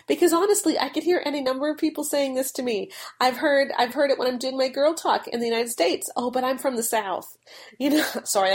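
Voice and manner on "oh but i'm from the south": put-on half-hearted US Southern accent; lightly imitated American Southern accent; attempted Southern accent. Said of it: "I can't do a Southern accent very well".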